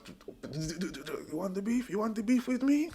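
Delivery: mock Tony taunt. Tony giving it large to the gunmen, slow high taunt. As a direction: stretch out the taunt.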